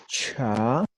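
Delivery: "cha" with a blown puff after CH; aspirated CH. Shown as a demonstration. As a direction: blow air through the CH of "cha". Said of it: "La aspirada, soplando".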